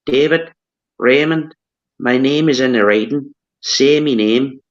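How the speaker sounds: light Irish lilt, slightly lifted; attempted Irish accent. Shown as a demonstration. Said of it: "I'll try and do it in an Irish accent".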